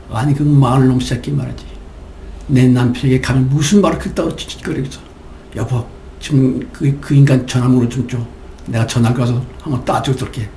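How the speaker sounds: wife half-heartedly fuming on her husband's behalf; mock furious outburst. Preacher's wife acting out mild outrage over insult. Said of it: "소리를 버럭버럭 지를 때에".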